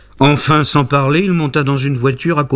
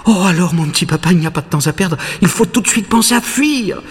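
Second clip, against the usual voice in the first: put-on high, quick urgent boy voice; lightly voiced puppet boy pressing to flee; 6 semitones higher, faster than usual. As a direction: hurry his papa along, words tumbling out. Pinocchio urges escape.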